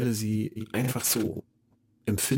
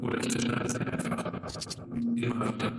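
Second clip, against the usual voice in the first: chopped-up voice; 3 semitones higher, much faster than usual. Acted. Voice cut up by effects.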